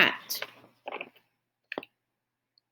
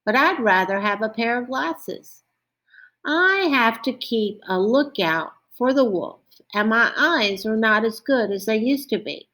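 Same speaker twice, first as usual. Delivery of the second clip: a hint of a worried sheep, slightly raised pitch; lightly voiced sheep; 3 semitones higher than usual. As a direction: lightly play a wishful storybook sheep.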